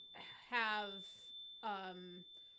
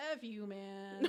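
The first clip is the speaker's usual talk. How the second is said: Scottish brogue; 2 semitones lower, slower than usual. Retold or imitated. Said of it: "with a very strong Scottish brogue".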